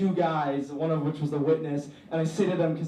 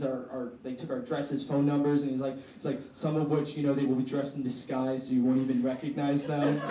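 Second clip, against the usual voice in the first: serious cop; 4 semitones lower, 4 dB quieter than usual. Retold or imitated. Police officer warns the students.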